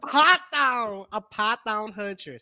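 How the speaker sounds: drawn-out "python" in a Southern twang; mock Southern twang. Host repeats the huntress title, mock Southern twang.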